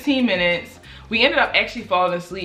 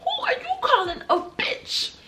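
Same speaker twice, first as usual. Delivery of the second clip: laughing indignation; 4 dB quieter than usual. Retold or imitated. Offended comeback, laughing.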